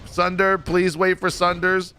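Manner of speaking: high, drawn-out retold plea; mock yelling. Tank begging the group to wait, mock yell. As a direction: call out slowly and high, without real volume. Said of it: "I'm just yelling".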